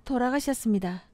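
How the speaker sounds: 표준어로 또박또박; plain standard Korean, no regional lilt; 표준어. Shown as a demonstration. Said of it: "표준어". (차분한 표준어 말투)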